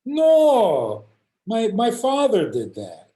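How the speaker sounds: firmer refusal. Retold or imitated. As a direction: shut the offer down harder. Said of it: "Second time I asked him".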